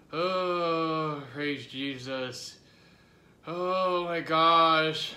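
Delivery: loud drawn-out pained cry. Real, not acted. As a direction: cry out from burning pain. Hot pepper pain, loud cry.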